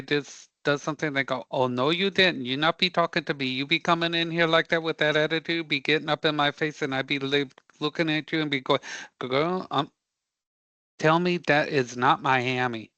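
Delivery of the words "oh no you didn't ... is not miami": fast, sassy street attitude, lightly put on; mock a mouthy Miami confrontation. Imitating a mouthy Miami local to a class, fast sassy attitude. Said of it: "Anybody know what a Miami attitude?".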